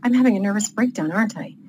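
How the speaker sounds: measured narration with lightly acted dialogue; story read-aloud. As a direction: read your own novel aloud to listeners. Reads aloud from own novel.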